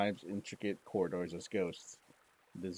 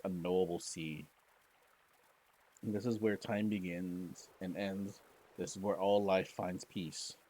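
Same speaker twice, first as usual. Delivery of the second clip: normal talking voice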